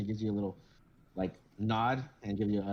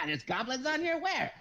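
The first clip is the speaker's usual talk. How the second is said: high, alarmed squeak; startled old man. Acted. Old man looking round for goblins, high and startled. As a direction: jump at the word goblins. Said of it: "old man startled by goblin".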